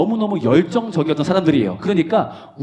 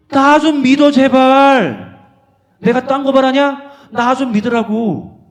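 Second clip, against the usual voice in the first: much higher, louder exasperated plea; Jesus pleading; 10 semitones higher, 8 dB louder, slower than usual. Acted. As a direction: beg them to just believe, dragging please. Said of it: "오늘날 말로 옮겨볼게". (제자들에게 간청하는 예수님, 답답해서 크게 애원)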